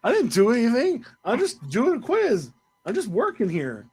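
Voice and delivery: pretend-offended whine; mock hurt. Mock hurt protest to co-host.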